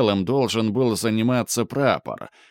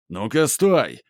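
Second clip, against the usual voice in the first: shout; 3 semitones higher than usual. Acted. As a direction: yell stop from behind. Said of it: "раздался крик за спиной". (окрик сзади)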